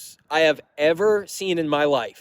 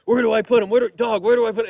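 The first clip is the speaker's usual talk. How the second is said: eager fan voice; 6 semitones higher, faster than usual. Retold or imitated. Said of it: "He's like".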